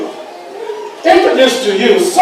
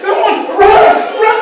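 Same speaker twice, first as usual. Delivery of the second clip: retold cheering; 9 semitones higher, slower than usual. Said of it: "scream their names".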